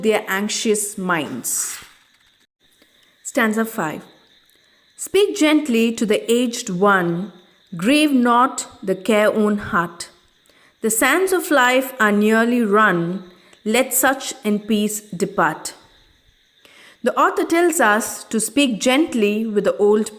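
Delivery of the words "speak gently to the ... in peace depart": poem recitation. Acted. Teacher recites stanza five.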